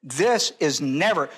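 slow, weighty stress on "never"; deliberate, absolute "never"; firm never. Shown as a demonstration. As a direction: land "never" firmly, with a falling pitch. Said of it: "That's not this word".

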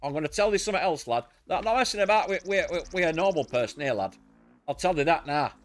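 mock Yorkshire. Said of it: "I'll get right Yorkshire on".

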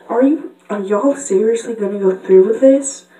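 a touch of Southern twang; pony with a light Southern accent; Applejack. Acted. Applejack questioning the others, lightly Southern. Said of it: "I'm Red Applejack".

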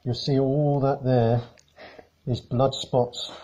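muffled behind a face mask; talking through a mask. Real, not acted. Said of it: "speaking through a face mask at the moment".

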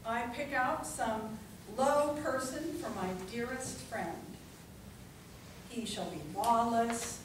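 measured, declamatory poem reading with long pauses; dramatic public poetry reading; poetry recitation. Acted. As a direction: recite it line by line, letting each phrase land. Recites a Whitman poem to audience.

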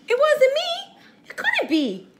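a high, lightly voiced turtle with a laugh. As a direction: giggle the denial as the turtle. Turtle voiced in read story.

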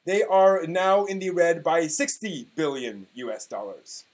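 mock-grand reading of an old forum post; dramatic reading. Podcast host reading an old anime forum post, mock-dramatic. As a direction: read it like a solemn proclamation. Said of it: "I will be giving you a dramatic reading".

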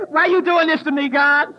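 loud, mock-anguished plea; retold meltdown. Woman pleads with God in hotel, mock meltdown. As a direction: wail lightly in mock despair. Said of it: "I have a total meltdown".

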